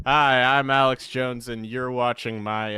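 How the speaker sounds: loud blustery radio-host bellow; Alex Jones impression. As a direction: boom it out like a ranting talk-show host. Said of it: "my voice actor audition".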